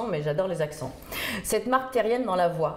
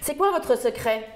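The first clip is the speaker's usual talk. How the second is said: crié lentement; 5 semitones higher than usual. Retold or imitated. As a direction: question lente et forte. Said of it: "m'obligeait à hurler". (on crie la question à la dame sourde)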